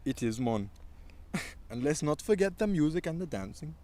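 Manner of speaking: put-on Caribbean accent. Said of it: "in a Caribbean accent".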